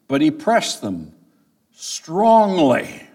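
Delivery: pause, then punch the word "strongly"; stress on strongly. Shown as a demonstration. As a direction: lean hard on "strongly" after a short break. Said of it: "Put the emphasis on that word strongly".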